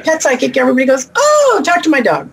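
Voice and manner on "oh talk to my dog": mock eager client. Voicing eager clients' reaction.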